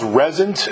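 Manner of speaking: "Resent" stressed on the first syllable, REZ-ent; pronounced REZ-ent. Shown as a demonstration. Host checking a record's title with the artist, pronouncing "Resent" as REZ-ent. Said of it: "it's pronounced".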